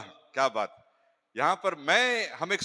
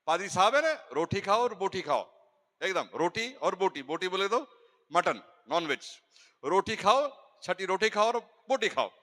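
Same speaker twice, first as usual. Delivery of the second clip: light Punjabi tone; 3 semitones higher than usual. Retold or imitated. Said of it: "थोड़ा Punjabi tone में मैं बोलूंगा".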